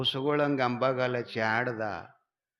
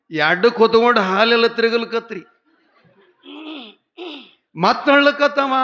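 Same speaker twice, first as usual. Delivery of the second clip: loud, high, laughing through the words; laughing narration; 10 semitones higher, 13 dB louder than usual. Real, not acted. Storyteller laughing as she tells of the husband carrying the boy. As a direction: tell it while cracking up.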